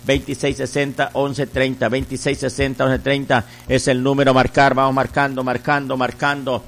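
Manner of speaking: insistent, rhythmic pledge-drive chant; radio offering appeal. Real, not acted. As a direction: urge listeners to call, repeating in rolling phrases. Leads a radio offering appeal, urging calls. (llamado insistente y rítmico a ofrendar)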